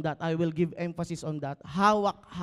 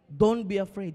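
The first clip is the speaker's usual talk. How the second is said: louder, firmer; 5 dB louder than usual. Shown as a demonstration. Pastor modelling the line for the congregation, firmer. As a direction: say it firmly to your neighbour. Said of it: "Sabi mo sa katabi mo".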